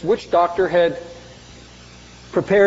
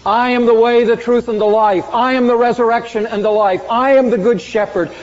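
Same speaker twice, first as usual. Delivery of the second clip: proclaiming Jesus; 4 semitones higher than usual. Retold or imitated. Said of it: "Kind of talk fills his vocabulary".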